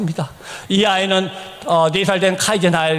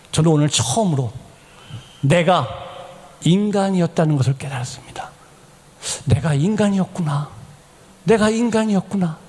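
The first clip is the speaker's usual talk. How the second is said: imitated awed confession; hushed realization; 2 semitones lower than usual. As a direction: let each phrase sink in between pauses. Patient's moving realization, voiced.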